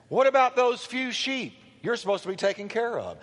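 lightly acted sibling reproach; angry older brother. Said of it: "he was angry".

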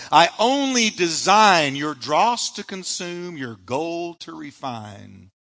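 slow, solemn recital of a hymn. Acted. Pastor recites a hymn to the congregation, slow and solemn. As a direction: lean into each line of the old hymn.

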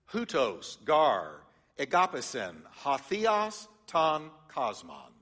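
Greek words read out slowly, syllable by syllable; reading Greek aloud. Shown as a demonstration. Pastor reads John three sixteen in Greek, carefully sounded out. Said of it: "It reads like this".

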